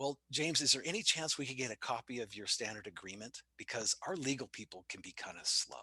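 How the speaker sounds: quiet, dropped voice. Retelling what a guy said to him after looking around, lowered voice. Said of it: "he kind of lowers his voice".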